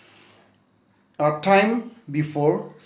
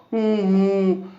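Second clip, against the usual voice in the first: sobbing hoo; 6 semitones higher than usual. Shown as a demonstration. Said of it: "making a sounds like wah".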